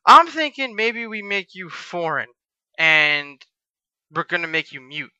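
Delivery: imitating a boss slowly unveiling an idea; slow pondering.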